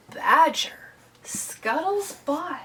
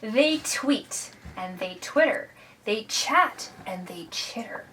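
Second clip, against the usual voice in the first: put-on children's story narration; 3 semitones higher, slower than usual. A narrator's reading. Reads a picture book to children.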